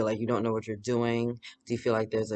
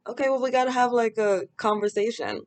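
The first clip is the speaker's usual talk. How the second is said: mock serious; 10 semitones higher than usual. Acting her reply to friend.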